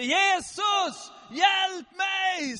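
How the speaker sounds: high, loud drawn-out yell; desperate screaming. Acted. Blind man refusing to be silenced, screaming desperately for Jesus. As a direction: keep shouting despite being hushed. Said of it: "skrek han".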